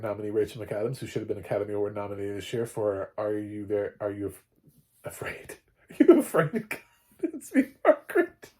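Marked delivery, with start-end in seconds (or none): 5.9-8.5 high, giggling through a botched title; laughing flub. Real, not acted. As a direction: laugh your way through the mistake. Bungles the film title, laughing.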